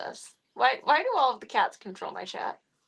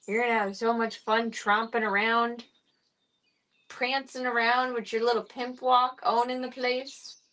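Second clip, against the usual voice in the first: doting pet talk; 4 semitones higher than usual. Real, not acted. Doting on the kitten.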